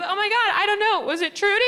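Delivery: high, loud flustered mom; imitating her panicking mom. Mom panicking on the phone with Sprint, high and loud.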